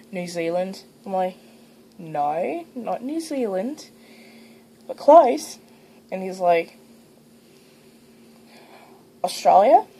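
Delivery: put-on Australian accent; amateur attempt at an Australian accent; learned Australian accent. Shown as a demonstration. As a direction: talk in an imitation Australian accent.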